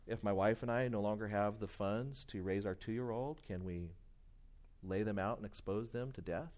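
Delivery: low, softened, gentle question; loving response. Acted. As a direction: put it to them tenderly. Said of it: "very lovingly respond and say".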